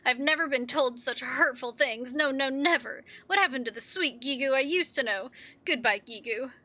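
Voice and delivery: lightly voiced offended sweetheart; wounded kobold Bibi. Bibi rejecting Gigu, wounded. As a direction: scold with hurt, theatrical indignation.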